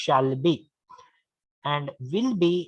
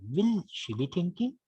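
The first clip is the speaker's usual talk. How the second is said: "Will" held and stressed, question rising at the end; teacher's model question with "Will" emphasized; 2 semitones higher, 3 dB quieter than usual. Shown as a demonstration. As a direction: punch the opening "Will", keep the rest lighter. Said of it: "we have to stress first word".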